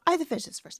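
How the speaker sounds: unvoiced hushed aside; whispering. Real, not acted. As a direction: whisper it under your breath. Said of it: "why are you whispering".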